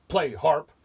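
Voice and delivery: loud, high giant command; roaring giant. Acted. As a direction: roar it at the harp. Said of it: "the giant roared".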